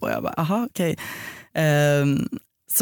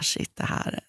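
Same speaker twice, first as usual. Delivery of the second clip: hushed, breathy inner aside; whispered thought; 7 dB quieter, slower than usual. Retold or imitated. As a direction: viska tanken tyst för dig själv. (viskad tanke)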